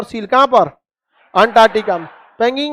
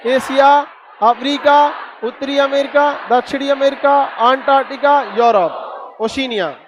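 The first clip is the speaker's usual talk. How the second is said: brisk classroom list, no pauses; quick recital. Shown as a demonstration. Teacher drills the class on continents, rattling them off quickly. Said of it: "चलिए अब फटाफट बताइए".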